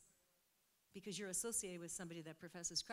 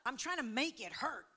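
animated, louder mock amazement; retold astonishment; 4 semitones higher, 9 dB louder than usual. Woman testing her healed foot for the preacher, retold astonishment. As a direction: imitate her amazement, raised and loud.

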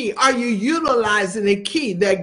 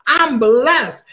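bold decree. Shown as a demonstration. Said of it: "you have to decree and declare".

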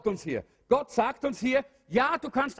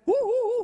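ghostly hooting; 13 semitones higher, 5 dB louder than usual. Retold or imitated. Preacher mocking the idea of floating souls, ghostly hoot. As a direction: hoot like a drifting little cloud soul.

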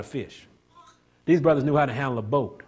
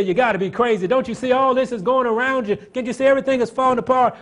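mocking world; 11 semitones higher, 9 dB louder than usual. World mocking believer, voiced.

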